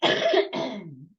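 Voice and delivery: coughing mid-sentence; coughing fit. Real, not acted. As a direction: cough breaking into the word. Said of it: "sorry, I'm coughing so much".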